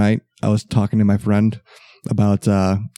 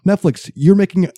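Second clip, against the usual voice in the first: indignant rant; 5 semitones higher than usual. Real, not acted. Ranting about lawsuit.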